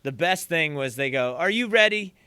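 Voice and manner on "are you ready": raised, higher-pitched call. Retold or imitated. Film crew checks on the waiting drummer, calling out. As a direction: call it out louder to someone waiting.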